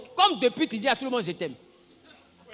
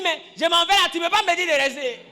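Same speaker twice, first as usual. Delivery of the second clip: mock storming out; 3 semitones higher, 3 dB louder than usual. Acts out partner storming out.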